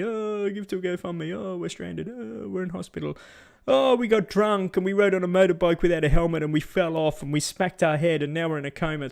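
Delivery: mock whining plea. Narrator mocking uninsured tourists begging on TV, lightly whiny. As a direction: parody stranded tourists begging for money. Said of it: "turning on the T V".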